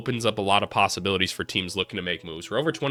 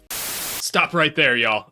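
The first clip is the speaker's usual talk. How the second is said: dramatic interruption; 4 semitones higher, much slower than usual. Pretend. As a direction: halt everything, slow and emphatic. Interrupts video for announcement.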